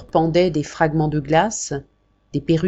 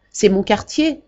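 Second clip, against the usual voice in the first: cheerful coachman; 4 semitones higher than usual. Acted. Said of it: "d'une voix joyeuse".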